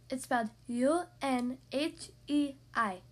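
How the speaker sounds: slow, careful spelling out; new girl correcting kids who mangle her name, slowly; patient correction. Acted. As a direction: spell it slowly so they finally get it. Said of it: "Yoon-hae corrected".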